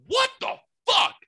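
very high, loud squeaky neighbor voice; neighbor's squeal. Retold or imitated. Neighbor peeking out, squealing in shock. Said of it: "peeks out and goes".

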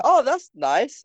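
high, bright mock lady. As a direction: put on a girly voice. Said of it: "And she's like".

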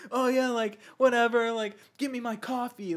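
imitating an obnoxious actor on set; bossy movie star. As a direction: play the jerk star ordering people about. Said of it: "but as a dick".

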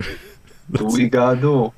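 lightly voiced gruff actor line; a hint of the actor's voice; imitating actor. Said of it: "He doesn't sound like that".

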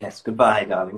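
loud, hammed-up posh farewell; mock posh accent. Co-host joins her joke, mock posh. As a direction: sign off in playful posh English.

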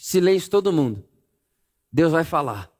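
usual speaking voice

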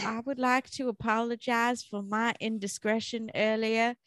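mock-formal put-on accent, part Southern, part British. Guest apologizing for her gaffe, muddled put-on accent. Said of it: "where I got that accent".

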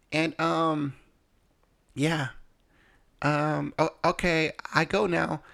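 put-on high-pitched mother-in-law with an Asian accent; imitated Asian accent. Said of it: "that's my best Asian accent".

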